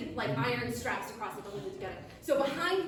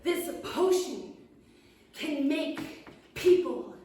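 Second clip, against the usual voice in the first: high, loud, grumbling gnome; 3 semitones higher, 5 dB louder than usual. Acted. Gnome confesses to the witch he hates serving steaks, high and loud. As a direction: complain loudly like a tiny food-hating gnome. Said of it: "He says".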